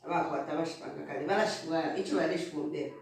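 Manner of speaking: talking while eating; words round a mouthful of food; mouth full. Real, not acted. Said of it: "Sorry if I'm not eating properly".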